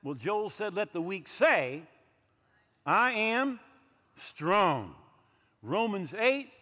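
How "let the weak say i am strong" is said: bold declaration. Acted. Quoting Joel, rising to declare.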